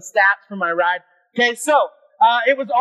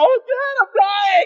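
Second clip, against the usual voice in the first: put-on very high, anguished, drawn-out wail; 10 semitones higher than usual. Recalling struggling to ride uphill behind Dad, retelling a scream. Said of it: "I'm like screaming".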